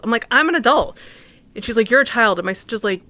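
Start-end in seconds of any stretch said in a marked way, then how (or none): 0.3-1.0 higher and louder, insisting; indignant retort. Retold or imitated. Arguing with six-year-old niece. 1.9-2.4 put-on louder, higher, a kid's stubborn comeback; childish retort. Niece answering back in argument.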